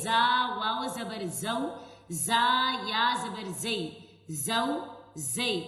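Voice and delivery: زا, زو and زی said firmly with a strong buzz; hard za. Shown as a demonstration. Teacher showing students a firm زا. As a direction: press hard on the ز of زو and زی. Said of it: "زا کو سختی سے پڑھیں گے".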